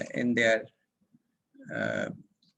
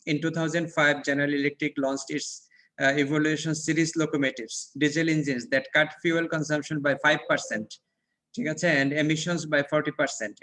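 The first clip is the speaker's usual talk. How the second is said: slow textbook reading; much slower than usual. Acted. Reads textbook passage aloud.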